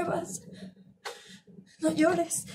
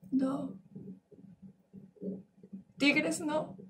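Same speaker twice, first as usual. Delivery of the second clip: much softer, almost to herself; quiet correction; 10 dB quieter, much slower than usual. Acted. A woman correcting her own words to the crowd, hushed. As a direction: pull it right back down, hushed.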